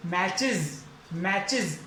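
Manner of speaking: matches said as mechez; the wrong reading of मैचेस. Shown as a demonstration. Teacher saying the word the wrong way. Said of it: "मैचेस नहीं".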